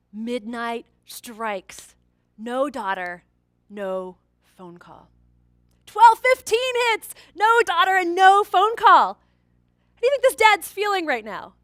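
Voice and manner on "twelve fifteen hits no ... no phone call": louder, higher, slow, building alarm; loud, slow dramatic telling of the late hour; rising tension. A narrator's reading. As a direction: let the tension swell as the clock ticks.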